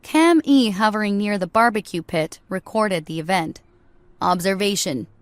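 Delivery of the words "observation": deadpan robot voice. Acted. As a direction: emotionless machine report. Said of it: "he stated in his deadpan voice".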